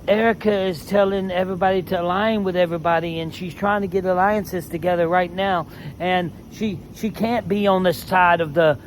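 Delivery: mimicking a rival running to the host, a bit high and rushed; mock crying Rob. Mocking Boston Rob complaining to Jeff, whiny and fast. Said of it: "Boston Rob goes crying to Jeff saying".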